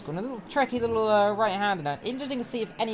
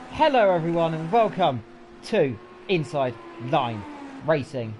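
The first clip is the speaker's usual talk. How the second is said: louder announcer welcome, slowing at the show name; broadcast opening; 4 dB louder than usual. Acted. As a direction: open the show like a TV presenter.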